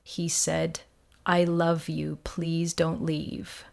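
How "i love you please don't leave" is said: a crying husband's breathless plea; tearful whisper. Acted. Husband begging his wife not to leave, tearful whisper. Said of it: "John cried".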